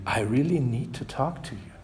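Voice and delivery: a hushed, pressing request for help; quietly desperate, slowing on help. Retold or imitated. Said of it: "says more urgently".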